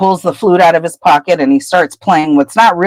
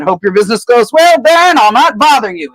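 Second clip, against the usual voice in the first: grovelling Peeves; 5 semitones higher than usual. Retold or imitated. Peeves fawning while flying off.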